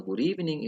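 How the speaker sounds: "good evening" lifted, then falling; contrasted intonation. Shown as a demonstration. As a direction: raise "evening" and let it drop. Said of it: "tidak, tidak sama ya intonasinya".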